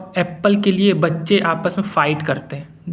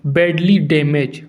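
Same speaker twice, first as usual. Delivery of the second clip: बैडली डैमेज said slowly and deliberately; slow definition; 3 semitones lower, slower than usual. Shown as a demonstration. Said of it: "फिर next word हमको जो याद करना है".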